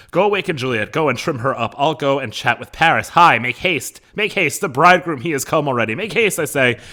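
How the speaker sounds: loud, high, urgent stage orders; hurrying Capulet. Acted. Acting Capulet hurrying the nurse.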